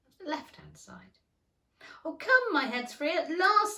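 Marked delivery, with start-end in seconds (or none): 2.0-3.8 high, loud glee; delight. A narrator's reading. Alice relieved her head is free, high and loud. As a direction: burst out with joy. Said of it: "in a tone of delight".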